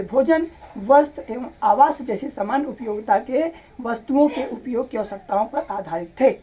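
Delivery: steady, careful textbook read-aloud, each word traced with a pen; reading aloud line by line. Shown as a demonstration. Teacher showing students how to read the chapter aloud, steady and careful. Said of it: "मैंने यहाँ पर थोड़ा सा loudly पढ़ाई किया".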